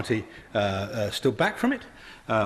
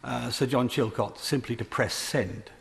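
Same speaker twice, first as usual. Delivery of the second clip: slow mock motion wording; slower than usual. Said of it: "by saying".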